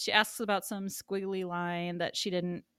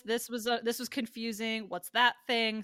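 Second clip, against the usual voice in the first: raised, insistent list of complaints; piling on; 4 semitones higher, 4 dB louder than usual. Retold or imitated. Julie critiquing his movie point by point, piling on. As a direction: imitate her heaping up one objection after another. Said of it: "then starts piling on".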